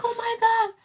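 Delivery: high, stunned exclamation; shocked. Retold or imitated. Mother reliving the shock, high exclamation. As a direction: say it high like you can't believe it. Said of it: "I'm like".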